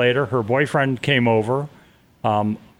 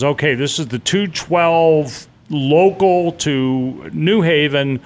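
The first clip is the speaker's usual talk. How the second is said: slow, drawn-out conductor's call over the train; train conductor announcement; slower than usual. Retold or imitated. Retelling the story, voicing the conductor calling the train's route. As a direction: announce the stop like a bored conductor.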